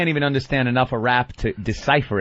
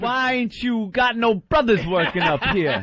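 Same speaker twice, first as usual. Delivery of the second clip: slow, higher-pitched hood challenge; hood talk; 7 semitones higher, slower than usual. Acted. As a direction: play up the street talk to challenge the foreman. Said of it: "I'm trying to stay hood, like, talking to the foreman".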